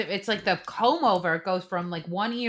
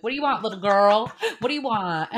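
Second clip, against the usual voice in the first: lively mock challenge; teasing mock scolding; 2 semitones higher, 5 dB louder than usual. Host voices how she talks to Summer, mock scolding. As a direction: playfully confront a little girl.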